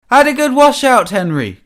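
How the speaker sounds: high, loud gloating taunt; triumphant mocking call. A narrator's reading. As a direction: holler the jibe high from a distance. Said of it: "called a voice".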